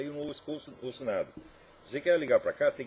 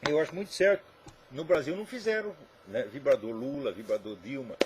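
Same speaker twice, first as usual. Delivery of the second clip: ordinary delivery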